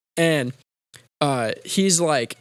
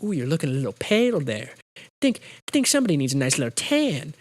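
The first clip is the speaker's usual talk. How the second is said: mirror self-talk; faster than usual. Acted. Movie hero teasing himself in rear view, lightly voiced. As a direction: put on a mild teasing voice. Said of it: "he looks in the rear view, and he's like".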